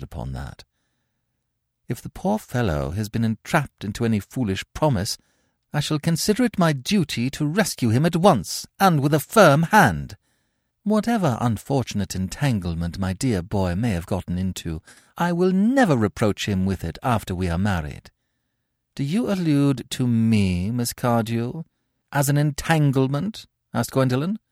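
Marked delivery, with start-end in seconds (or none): 1.9-18.1 firm, rising, louder on the firm hand; determined rival. Acted. Cecily vowing to rescue Ernest, firm and rising. 19.0-23.5 offended lady. Acted. Gwendolen offended question.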